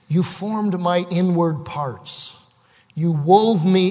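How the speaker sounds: measured, reverent psalm reading; solemn preacher reading a psalm; scripture reading. Acted. Reads Psalm 139 aloud.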